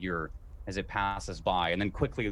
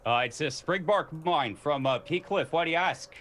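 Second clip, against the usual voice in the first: proud guard; 5 semitones higher than usual. Acted. Guard names his wine.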